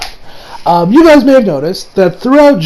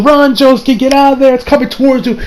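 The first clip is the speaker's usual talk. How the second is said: higher-pitched retold cry of alarm; urgent warning; 5 semitones higher than usual. Hayato telling Josuke to get out of there, urgent warning. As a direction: urge him to run, voice raised in pitch. Retells a character shouting a warning.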